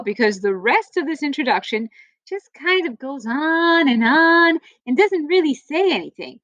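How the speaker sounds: lively storybook read-aloud for a class; reading to children. Acted. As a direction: read it like story time for kids. Teacher reads book to class.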